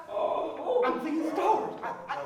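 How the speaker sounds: gasping, breaking off; palpitations. Acted. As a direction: struggle for breath. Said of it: "My legs been going. I think I'm dying".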